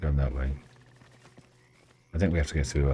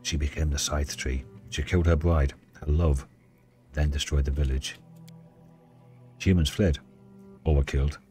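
story narration. Acted. Reads and voices the Dryad.

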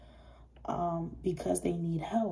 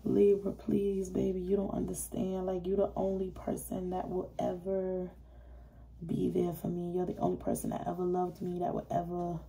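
mock crying plea; 5 dB quieter than usual. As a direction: plead softly, dying off into a whisper. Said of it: "this motherfucker crying".

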